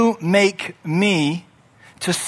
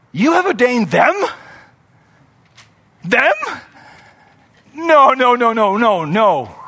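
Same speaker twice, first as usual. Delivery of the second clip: bewildered protest; 3 semitones higher than usual. Acted. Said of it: "so you can see he's bewildered".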